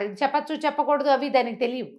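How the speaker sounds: ordinary delivery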